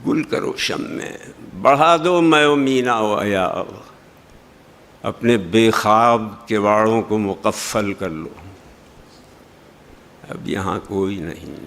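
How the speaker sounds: lightly voiced melancholy recital; poem recitation. Shown as a demonstration. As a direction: let the night settle into silence.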